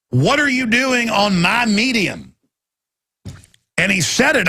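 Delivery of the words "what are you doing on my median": retold yell. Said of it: "starts yelling".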